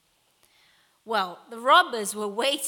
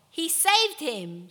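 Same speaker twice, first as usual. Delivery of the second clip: higher, louder, drawn-out call; crowd member's shout; 6 semitones higher, 5 dB louder, slower than usual. A narrator's reading. Another in the crowd guesses the ending, slow read-aloud shout. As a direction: call out slowly with raised voice. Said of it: "shouted another".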